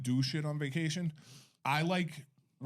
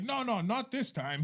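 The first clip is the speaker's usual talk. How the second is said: higher, slow, drawn-out denial; Providence guy; 8 semitones higher than usual. Retold or imitated. Providence man corrects a stranger's congratulations, slow higher mimicked voice. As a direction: wave it off in a Rhode Island voice. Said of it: "He's like".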